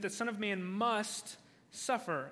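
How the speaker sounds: "must" drawn out, then a pause; "must" stretched for emphasis; stress on must. Shown as a demonstration. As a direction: lean on "must" and hold it before going on. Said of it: "I want to emphasize that word".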